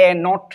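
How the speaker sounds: এ not, said as the letter A then the word not; reading A-bar aloud. Shown as a demonstration. Teacher showing students how to read A-bar, plain and clear. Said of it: "এটাকে আমরা উচ্চারণ করব কি?".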